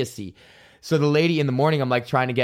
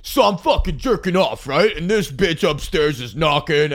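crude opening bit; 3 semitones higher than usual. Retold or imitated. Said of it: "Not get on stage".

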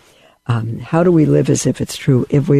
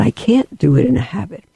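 inner voice; 6 semitones higher than usual. Retold or imitated. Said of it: "that I said".

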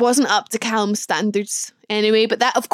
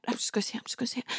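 nervous whisper; 15 dB quieter, much faster than usual. Retold or imitated. Bracing to confess to mum.

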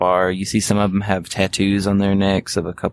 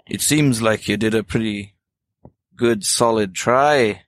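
bouncer confronting. Acted. Bouncer threatens apologizing character.

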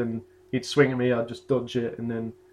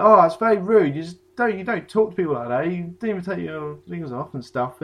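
retold yelling; 5 semitones higher, 4 dB louder than usual. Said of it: "he's still yelling at me".

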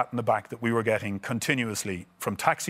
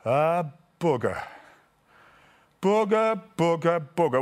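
mock exasperation; 5 semitones higher, slower than usual. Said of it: "then he just went".

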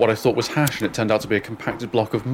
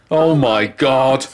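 mock scream; 2 semitones higher, 5 dB louder, much slower than usual. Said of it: "screamed my mum".

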